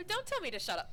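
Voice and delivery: high, loud mock outrage; mock indignant.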